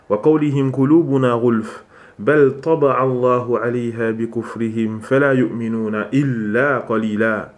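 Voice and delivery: quick, measured Arabic recitation; Quran recitation. Real, not acted. Teacher quoting Allah's words to his students, Quran recitation. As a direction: recite the verse in an unbroken, even flow.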